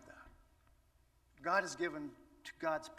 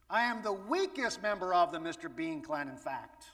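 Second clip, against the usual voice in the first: rising, louder, pleading excuses of a weak man; Gideon pleading; 2 semitones higher, 3 dB louder than usual. Pretend. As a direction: whine that you're the wrong person, building up. Preacher voices Gideon's excuses.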